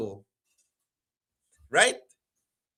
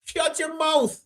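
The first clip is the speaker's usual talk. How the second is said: stern order; 10 semitones higher, slower than usual. Retold or imitated. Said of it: "If you hollering and going".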